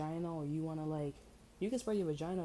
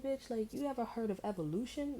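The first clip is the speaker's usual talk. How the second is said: incredulous retort; 8 semitones higher than usual. Retold or imitated. Incredulous retort, high pitch.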